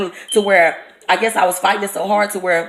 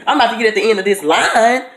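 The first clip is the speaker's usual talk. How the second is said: laughing, higher pitched protest; laughing disbelief; 3 semitones higher than usual. Retold or imitated.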